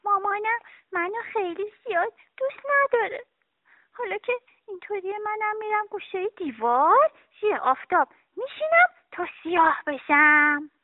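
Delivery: put-on high, fast, tearful child muttering; a hurt little girl talking to herself; sulky sad girl. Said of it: "با خودش گفت".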